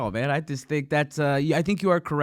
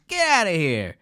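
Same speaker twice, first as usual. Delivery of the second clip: cop brushing off; 2 semitones higher than usual. Retold or imitated. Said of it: "they go".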